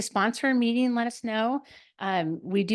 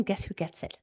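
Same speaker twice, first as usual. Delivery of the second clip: whispered; 7 dB quieter than usual. Real, not acted. Teasing setup before reveal.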